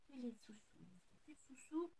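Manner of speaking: playful hushed whisper. Real, not acted. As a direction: whisper it like a secret. Whispered joke about no money.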